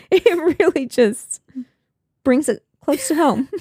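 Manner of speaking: laughing. Real, not acted. Joking through laughter.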